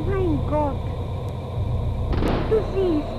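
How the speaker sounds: a mother's loud, rising plea; praying aloud. Retold or imitated. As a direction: beg God, building in volume. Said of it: "und betete laut".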